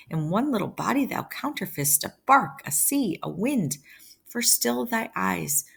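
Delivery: Capulet's speech read aloud in a lifted pitch; lightly acted classroom reading of a father's speech; dramatic verse reading. A narrator's reading. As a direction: read out Shakespeare with rising, swooping emphasis.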